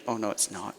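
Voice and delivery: mock humble denial; false humility. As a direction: wave away the praise coyly. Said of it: "master of false humility".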